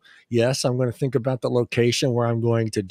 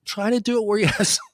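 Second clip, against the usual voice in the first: holding back laughter; fighting off a giggle; stifled giggles; 4 semitones higher than usual. Real, not acted. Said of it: "I'm trying not to laugh before I say this".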